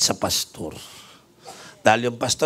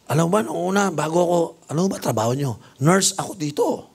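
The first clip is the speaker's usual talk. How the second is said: raised, bragging nurse; proud nurse voice; 6 semitones higher than usual. Retold or imitated. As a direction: boast about the climb up, pitched high. (mayabang na boses ng nars)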